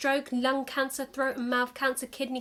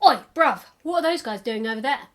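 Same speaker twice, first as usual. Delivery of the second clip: put-on casual London accent question, louder start; 4 dB louder than usual. Alien asking about smokers in London accent. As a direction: ask matey-like in a London accent. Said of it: "they've adopted a London accent".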